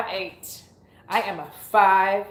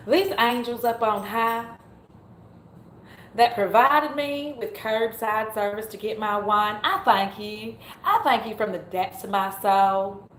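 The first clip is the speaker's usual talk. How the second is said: put-on country accent. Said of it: "doing my funny little country accent".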